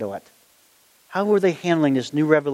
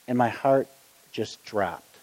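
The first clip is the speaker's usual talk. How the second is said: low, very soft, deflated telling; crestfallen; 7 semitones lower, 5 dB quieter, slower than usual. Retold or imitated. Preacher recalls his heart dropping, low and crestfallen. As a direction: let pitch and volume fall away, disheartened.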